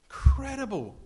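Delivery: awed cry of amazement; amazed exclamation. Real, not acted. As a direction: burst out in wonder. Preacher marvels at Jesus' claim.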